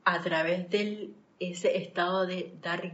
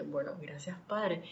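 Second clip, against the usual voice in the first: softer, murmured thank-you to God; 2 semitones lower, 7 dB quieter than usual. Retold or imitated. Quietly thanking God after hearing she can arrive later. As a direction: breathe a quiet grateful prayer.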